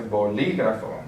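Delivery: "bolígrafo" with the stress on LÍ; stress on accented syllable. Shown as a demonstration. Teacher showing where the accent falls, LÍ stressed in "bolígrafo". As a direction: lean on the LÍ in "bolígrafo". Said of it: "since we have the accent on the I".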